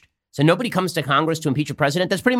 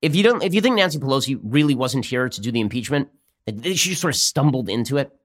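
ordinary talk, nothing marked

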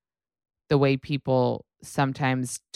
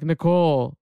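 put-on Paris Hilton baby voice. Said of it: "That's Hot voice".

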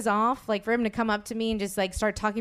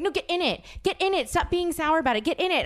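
higher-pitched, pushy imitation; bossy insistence; 4 semitones higher than usual. Guest mimicking the fan ordering her into the photo, bossy.

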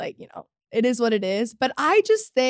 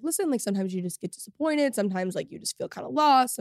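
somber; 5 dB quieter than usual. Retold or imitated. Podcaster quoting herself from last week's episode, somber. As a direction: quietly recall being a little down. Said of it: "I was a little bit somber".

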